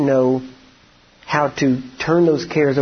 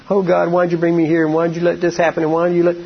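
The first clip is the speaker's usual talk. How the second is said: mock whining. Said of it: "we're crying and whining".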